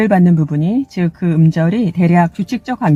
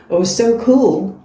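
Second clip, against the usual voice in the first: delighted exclamation; 2 semitones higher, much slower than usual. Acted. Excited reaction to own sound.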